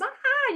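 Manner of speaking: a high, short mock yelp of fright; mock scream. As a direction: yelp like someone leaping from the plane. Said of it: "you scream and you jump".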